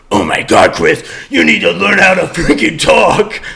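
put-on voice of fed-up friends; mock exasperated critics. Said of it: "to y'all, it was like".

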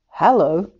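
croaking. Acted. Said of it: "he croaked".

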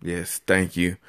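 low, smooth late-night DJ; sexy radio voice. Pretend. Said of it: "Did you put your sexy radio voice on".

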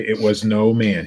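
"no" hit hard, slow fall on "It was no man"; stress on no. Retold or imitated. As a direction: lean on the word "no", slowly. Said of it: "he didn't say it that way".

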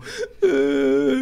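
sudden high laugh bursting out loud; burst of laughter. Real, not acted. Recalling his aunt's blunt question, laughing loud. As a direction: laugh hard, half crying, at the memory.

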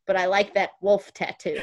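lightly imitated New York bubby approving; grandmother's praise with a hint of New York; New York accent. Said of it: "Oh, that's how she talks".

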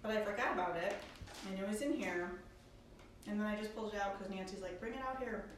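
talking around a mint in the mouth. Real, not acted. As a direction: mint in mouth, words slightly thick. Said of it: "Sorry, I have this mint in my mouth".

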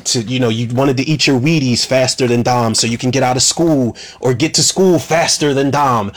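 a mild take on a cold manipulator; mocking Cypher voice. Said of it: "she's like".

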